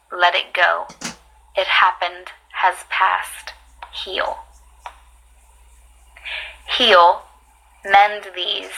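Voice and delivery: deliberate recital with pauses between phrases; poetry reading. Acted. Reading a healing poem to viewers, measured and deliberate. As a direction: read each short phrase on its own, measured. Reads another writer's poem.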